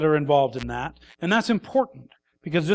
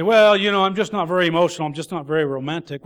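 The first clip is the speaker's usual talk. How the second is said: mock excuse; faster than usual. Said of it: "Men will use that as a crutch".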